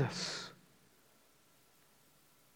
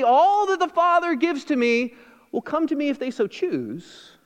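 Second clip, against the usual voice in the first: higher, slightly sarcastic misquote; a teasing misreading, pitched high; mock wrong version; 5 semitones higher than usual. Shown as a demonstration. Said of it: "He doesn't say".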